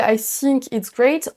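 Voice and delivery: I think it's great with think as sink; French learner's "sink" in think. Shown as a demonstration. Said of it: "corriger cette prononciation".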